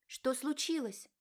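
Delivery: put-on alarmed young wife; worried question. A narrator's reading. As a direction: ask it nervously and hesitantly. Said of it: "спросила девушка взволнованно".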